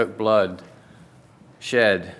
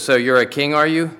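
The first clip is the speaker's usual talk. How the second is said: mocking sneer rising higher on "are you"; jeering; 6 semitones higher, 5 dB louder than usual. Roman soldiers mocking Jesus, a jeering taunt. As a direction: taunt him like a scornful soldier, louder. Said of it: "the Roman soldiers jeered".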